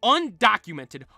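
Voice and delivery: dramatic build. Acted. Narrating the legend of Mew, dramatic build. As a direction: sell the mystery, building up.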